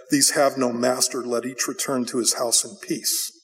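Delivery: low, sinking, understated gravity; intense and grave. Acted. Prophet passing on the Lord's word, grave. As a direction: deliver the verdict gravely, pitch dropped. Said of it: "Micaiah's voice got, got intense and grave".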